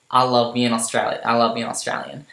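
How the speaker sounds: lightly put-on Australian accent; amateur Australian accent demo. Shown as a demonstration. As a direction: try on an Aussie accent. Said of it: "I'll do my Australian accent".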